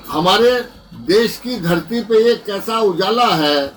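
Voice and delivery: rhythmic, emphatic mushaira declamation; poem recitation. Acted. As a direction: declaim the verse to a hall, line by line. Recites patriotic lament poem.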